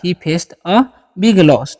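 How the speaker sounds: He faced a big loss said very slowly, word by word; slow model sentence. Shown as a demonstration. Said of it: "sentence कैसे बना सकते हैं". (धीमे, साफ़ उच्चारण में वाक्य)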